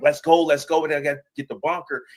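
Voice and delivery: half-shouted hurry-up, quickening at the end; retold yell. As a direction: re-enact yelling at people to clear out. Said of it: "I'm yelling at them".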